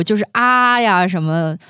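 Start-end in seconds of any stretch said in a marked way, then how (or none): 0.3-0.8 sustained open "ah"; drawn-out voice-exercise "ah"; vocal warm-up vowel. Shown as a demonstration. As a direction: demonstrate a simple practice note, held long. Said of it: "都是很简单的那种音符".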